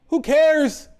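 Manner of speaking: fed-up, dismissive shout; exasperated outburst. Real, not acted. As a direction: throw the question at the fans. Ranting at fans.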